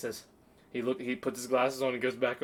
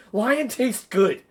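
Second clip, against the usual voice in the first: slow words broken by laughter; can't get through it for laughing; higher, louder, laughing; 8 semitones higher, 8 dB louder, much slower than usual. Real, not acted. Cracking up mid-quote.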